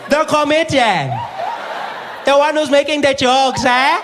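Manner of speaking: high, loud, slow mocking laughter. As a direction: gloat while laughing.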